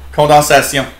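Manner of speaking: "Condensation" said as a French word; French "Condensation", ending in "syon" instead of "shun"; French pronunciation. Shown as a demonstration. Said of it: "what's French for condensation".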